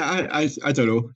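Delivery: yawning while talking; words stretched by a yawn. Real, not acted. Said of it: "Sorry, I'm yawning there".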